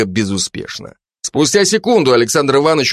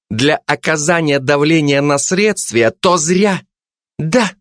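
higher, pushy detective woman; Zhanna's voice; 6 semitones higher than usual. Acted. Жанна давит на Кулебяку, напористо и выше. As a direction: lean on him, mock-polite and suspicious.

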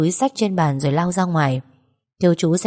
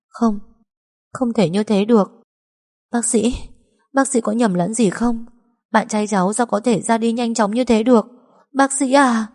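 higher, pleading in shock; begging the doctor it isn't true; despairing disbelief; 5 semitones higher than usual. Acted. Denial at death news. (tuyệt vọng, không tin nổi)

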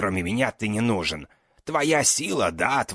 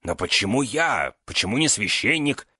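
frightened plea; 5 semitones higher, 5 dB louder than usual. Acted. Magister pleads for his life.

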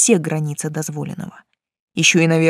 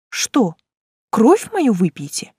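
weary; 3 semitones higher, slower than usual. A narrator's reading. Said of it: "устало уточнила я".

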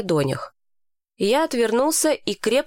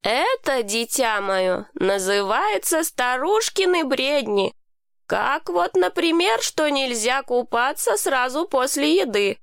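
higher, drawn-out knowing explanation; a hint of patient condescension, pitched up; lightly voiced Hani; 5 semitones higher, slower than usual. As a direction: lightly play an elder debunking a myth.

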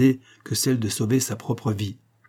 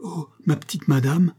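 higher, tender exclamation of pity; pitying tenderness; 6 semitones higher than usual. A narrator's reading. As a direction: lament your mistress with affection and respect. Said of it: "avec une indicible expression de pitié". (exclamation de tendre pitié)

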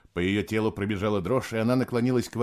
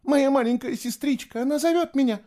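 very high, urgent cry; entranced outcry; 3 dB louder than usual. A narrator's reading. Girl hearing her little sister call, entranced cry. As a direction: call out as if pulled toward her.

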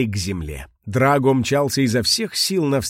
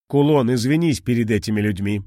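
commanding. Acted. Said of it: "приказал Драго".

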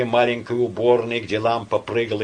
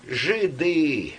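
put-on gloomy drunken shout; 6 semitones higher than usual. A narrator's reading. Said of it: "мрачно крикнул опьяневший Карась".

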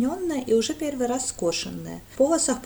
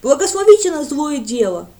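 loud, high, pleading; eager village lad; 5 semitones higher, 11 dB louder than usual. A narrator's reading. Lad kneeling before Brent, loud and eager. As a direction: beg it out earnestly.

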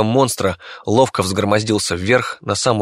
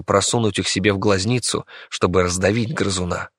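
usual speaking voice

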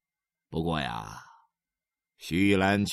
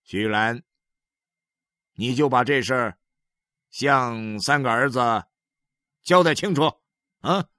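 louder, commanding husband; mildly raised husband's demand; stern husband; 4 semitones higher, 6 dB louder than usual. Acted. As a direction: order her to confess. Husband orders wife.

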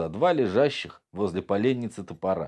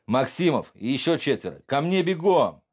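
barked command; 6 semitones higher than usual. Acted. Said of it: "скомандовал".

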